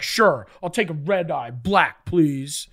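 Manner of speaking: low, curt mock coffee order; imitated intonation. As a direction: imitate a low, unenthused reply. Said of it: "That was the intonation".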